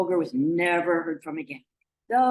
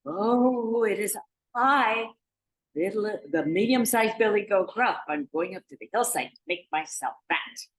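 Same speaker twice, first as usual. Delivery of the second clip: medium-sized goat answering; 4 semitones higher than usual. Acted.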